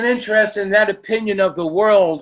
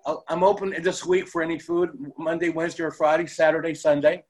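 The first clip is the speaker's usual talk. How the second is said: laughing; 5 semitones lower, 7 dB quieter, faster than usual. Real, not acted. Joking about free meals.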